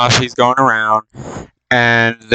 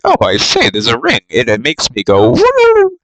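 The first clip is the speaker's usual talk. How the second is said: mock excited Bilbo. Bilbo finds the ring, prim then whooping. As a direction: gasp at the ring then yelp woo.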